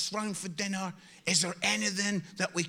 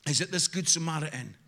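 normal talking voice

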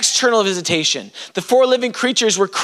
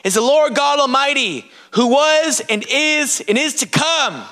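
raised-pitch proclamation of worship; acted shout of praise; 4 semitones higher than usual. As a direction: proclaim it like creatures crying out in praise. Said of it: "day or night, they shout".

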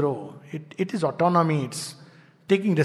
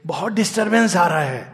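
quick excuse; 5 dB louder, much faster than usual. Retold or imitated. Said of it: "then you say".

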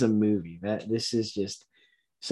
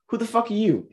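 mock tough guy; 10 semitones higher, faster than usual. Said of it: "one of the tech guy goes".

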